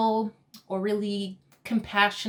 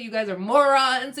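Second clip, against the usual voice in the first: louder, mildly pissed-off jab; retold annoyance; 3 semitones higher, 5 dB louder than usual. Pranked brother to the pranksters, mildly pissed off. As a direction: imitate an annoyed brother, pushing the volume. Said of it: "He was so pissed".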